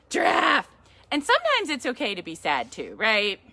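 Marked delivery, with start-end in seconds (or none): 0.1-0.7 louder, higher repeat of the word; calling out. Real, not acted.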